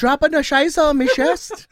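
high, slow mock German accent; drawn-out cod accent of no clear origin; muddled put-on accent. Joking as Hitler in bed, muddled German accent. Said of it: "I don't know what kind of accent that was".

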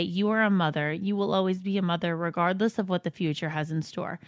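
gentle, steady letter reading; reading a letter aloud. Acted. Host reads a friend's Mother's Day note to the guest, gentle. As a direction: read it as a tender message.

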